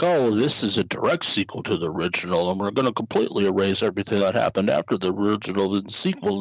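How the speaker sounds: smug mock film producer, rushing the end; a light imitation of a sleazy studio executive; shithead producer voice. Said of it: "shithead movie producer voice".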